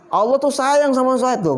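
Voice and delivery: drawn-out bragging, showing off possessions; boastful show-off. Acted. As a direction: brag with stretched-out words. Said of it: "ngomong gitu".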